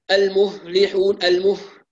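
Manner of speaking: المفلحون with the ف barely heard; weak fa. Shown as a demonstration. Teacher imitating a reader whose fa vanishes. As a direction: swallow the ف in المفلحون. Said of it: "الفاء الساكنة لا تظهر".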